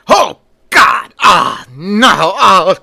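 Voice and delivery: high, loud screams of terror; terrified scream. Acted. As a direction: shriek in panic at the flower. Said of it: "Renfield screams out".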